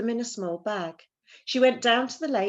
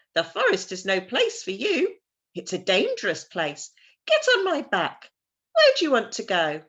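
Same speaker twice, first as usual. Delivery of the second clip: a light crow voice, louder; talking crow; 3 semitones higher, 6 dB louder than usual. Acted. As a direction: warn her like a bossy crow. Crow speaks to Gerda.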